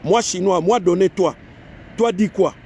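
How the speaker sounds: mock Chinese-accented broken French; Chinese speaker's French. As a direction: imitate a Chinese learner struggling through French. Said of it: "Si un Chinois parle français".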